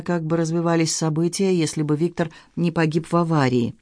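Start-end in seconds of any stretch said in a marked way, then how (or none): none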